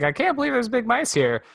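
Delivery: high-pitched imitation of panicked disbelief; mock freak-out. Retelling Charlie meeting big mice, mock freak-out. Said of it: "as she's freaking out".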